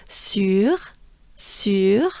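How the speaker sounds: "Sur" with a rounded French u; droopy-face vowel. Shown as a demonstration. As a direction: drill "Sur" with lips drooped forward, rising. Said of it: "here is a droopy face again".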